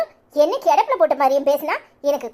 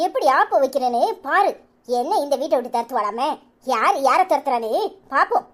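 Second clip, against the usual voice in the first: seething threat; 3 semitones lower than usual. Acted. Wife seething after husband's defiance.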